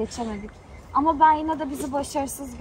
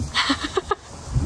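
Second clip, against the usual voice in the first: breathy giggle; 3 semitones higher than usual. Real, not acted. Laugh after voice trouble.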